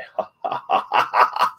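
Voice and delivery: breathy mock Joker cackle; a goddess turned by the Joker, laughing like him; imitated Joker laugh. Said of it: "she starts doing the Joker laugh".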